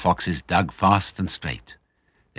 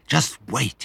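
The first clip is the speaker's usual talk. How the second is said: excited thought; 8 semitones higher than usual. Acted. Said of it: "he kept thinking".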